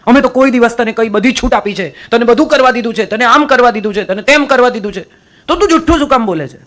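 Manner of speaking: mild mock scolding of a child; agitated parent. Parents scolding the child for lying, mock agitated. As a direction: imitate a worked-up parent, not full force. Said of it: "માતા પિતા બહુ ઉશ્કેરાય".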